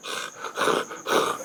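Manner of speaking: rasping breaths in short bursts; voiceless huffs, imitating a cat; imitated cat breathing. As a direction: breathe like a creepy staring cat. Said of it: "he'd be staring at me going".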